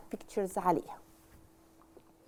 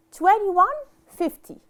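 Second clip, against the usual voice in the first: slow model reading; 6 semitones higher, 5 dB louder, slower than usual. Shown as a demonstration. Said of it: "I'll divide the number to two".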